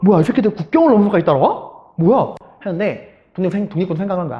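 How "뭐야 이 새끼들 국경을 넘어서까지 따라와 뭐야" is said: thrown, baffled, flustered, startled outburst. Acting out fighters seeing pursuers cross the border: imitating flustered surprise. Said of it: "그 독립군이 당황한 거죠".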